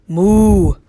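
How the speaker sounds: long, loud moo; hen mooing. Acted. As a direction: let out a big moo. Hen moos by mistake.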